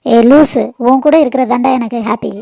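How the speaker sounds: a loud, teasing call of affection; wife loudly calls her husband a silly one out of love; fond scolding. Acted. Wife loudly and fondly teases her husband.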